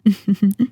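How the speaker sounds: short villainous chuckle. Acted. Vampire amused by a sentimental hunter, mocking chuckle. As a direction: chuckle to yourself at their sentiment.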